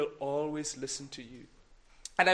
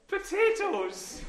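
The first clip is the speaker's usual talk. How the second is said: much higher, slow, drawn-out cry; delighted exclaim; 13 semitones higher, much slower than usual. Real, not acted. Amazed the children heard the word: delighted exclaim. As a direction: celebrate the answer. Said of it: "My goodness".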